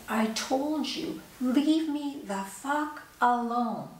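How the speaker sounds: slow, hostile, drawn-out warning; slow retold anger. Homeless woman telling the visitor to leave, slow angry retold warning. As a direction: spell it out slowly as a threat. Street woman rebuffs the helper.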